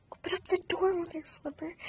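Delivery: high-pitched indignant retort at the door; mock angry yell. Kid yelling at the teacher through the door, mock angry. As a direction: snap it at the teacher like you're fed up. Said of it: "'cause I got mad".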